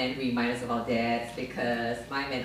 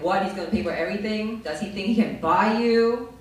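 fast, higher, indignant; inner feminist; 5 semitones higher, 6 dB louder than usual. Retold or imitated. Her inner feminist objects, mildly outraged. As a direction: huff it out in outrage. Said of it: "my inner feminist was like".

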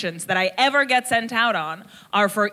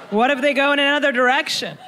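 higher, faster, eager self-persuasion; hopeful inner voice; 5 semitones higher than usual. Retold or imitated. Her inner voice convinces her to try, eagerly. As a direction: talk yourself into it, brightening. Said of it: "the second voice went".

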